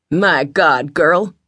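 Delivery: traveling salesman startled into an exclamation; exclaiming. A narrator's reading. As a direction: blurt it out, struck by her hair. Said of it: "he exclaimed".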